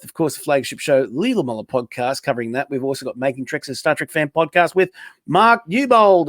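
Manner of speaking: wrestling promo. Acted. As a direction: pump up the crowd. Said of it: "give you a chance to do a promo".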